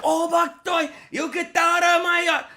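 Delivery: high, loud mock Asian accent; bad Asian accent. Husband yelling at process server at the door, bad Asian accent. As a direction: yell in a badly faked Asian accent. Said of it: "I'm not doing the best Asian voice".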